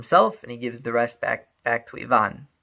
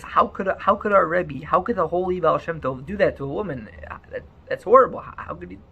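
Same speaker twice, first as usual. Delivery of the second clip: inner outrage; 5 semitones higher than usual. Acted. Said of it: "they're thinking to themselves".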